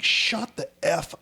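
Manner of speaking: high, slow mock threat; hammed-up angry dad; retold snap. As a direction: bite out each word slowly. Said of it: "I'm like".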